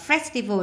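"festival" stressed on "fes"; first-syllable stress. Shown as a demonstration. Teacher marking word stress, "festival" stressed on the first syllable. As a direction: put the weight on FES in "festival". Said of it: "nhấn âm một".

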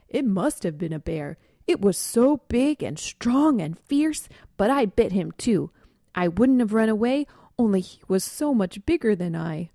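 a lightly voiced boasting young skunk; boastful skunk. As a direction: puff up the story of the bear. Black-tailed Skunk's boast.

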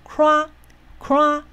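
"crack" pitched highest, held long and level; primary stress high. Shown as a demonstration. Teacher showing the highest, stressed syllable, high sustained "crack". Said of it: "中音节最高".

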